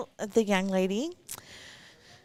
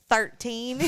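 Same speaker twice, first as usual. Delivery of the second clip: country accent. Shown as a demonstration. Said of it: "All you have to do is say thirteen".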